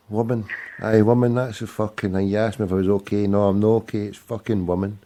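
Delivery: loud, exasperated shouting; loud rant. Real, not acted. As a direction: bellow the complaint. Ranting about a woman on air.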